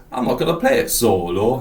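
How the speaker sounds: imitated strong northern English accent; a musician's original accent. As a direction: put on a musician's old Manchester accent. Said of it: "his original accent".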